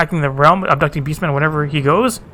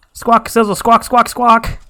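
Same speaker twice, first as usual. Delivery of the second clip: higher, squawking bird creature; excited bird squawks; 7 semitones higher, 3 dB louder, much slower than usual. Acted. Bird tribesman squawks at the engineer, higher and excited. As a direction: flap and squawk in a rush.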